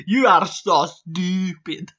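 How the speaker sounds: a light Dexter impression, very slow and smug. Vlogger repeating Dexter's line in a lightly done cartoon voice. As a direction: sneer each word slowly like a cartoon boy. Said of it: "the way the guy talks".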